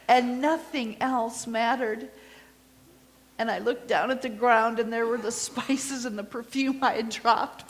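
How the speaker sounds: intimate first-person storytelling as a grieving disciple; Mary's witness monologue. Acted. Mary telling the congregation her story, earnest storytelling. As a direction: tell it as Mary, remembering Easter morning.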